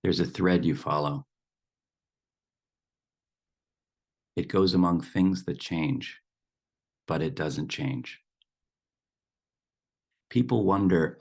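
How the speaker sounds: measured poem reading, a pause after each line; poem recitation. Acted. Teacher shares a dear poem with the group, measured recitation.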